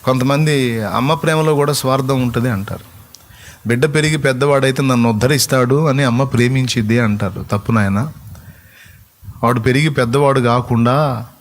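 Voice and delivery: loud, sustained sermon delivery; full-force preaching. Real, not acted. Pastor preaches to the congregation about a mother's love, loud. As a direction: preach it out to the whole hall.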